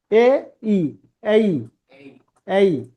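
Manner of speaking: এ and ই said apart, then glided together as এই; diphthong demo. Shown as a demonstration. Teacher demonstrating two vowels said together, diphthong demo. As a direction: blend এ into ই to make এই. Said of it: "দুটো ভাওয়াল একসাথে উচ্চারিত হয়".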